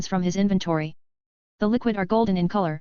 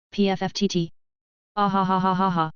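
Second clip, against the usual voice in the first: bursting into helpless laughter; snort, then cackle uncontrollably; laughing hard. Acted. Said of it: "The speaker is laughing so hard".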